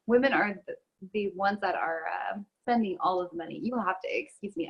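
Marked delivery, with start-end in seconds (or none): 1.1-3.6 throat catching mid-sentence; choking up. Real, not acted. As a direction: talk through a catch in the throat. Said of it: "I'm choking over here".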